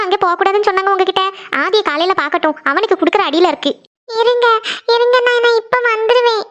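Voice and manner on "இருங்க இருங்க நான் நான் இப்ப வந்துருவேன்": high, urgent call to someone unseen; sleep-talking. Acted. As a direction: call out from inside a dream. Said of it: "இவ யாருகிட்ட பேசிட்டு இருக்கான்னு".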